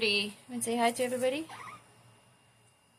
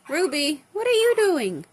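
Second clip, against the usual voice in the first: loud call to pet; 5 dB louder than usual. Real, not acted. Owner calling loudly to her bird Ruby.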